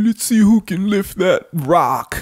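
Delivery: strange, high-pitched, put-on mocking voice. Voicing grown adults, a speaker says this in a weird voice. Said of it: "Why are you saying it in a weird voice?".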